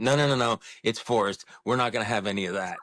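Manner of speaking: quick laughing Aussie impression; light Australian accent, fast end. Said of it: "That's your Australian accent?".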